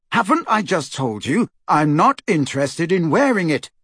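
high, exasperated fierce retort. Acted. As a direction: snap back fiercely. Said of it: "Harry said fiercely".

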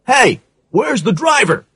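high, urgent call. A narrator's reading. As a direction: ask it in a hurry, alarmed. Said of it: "asked the sergeant urgently".

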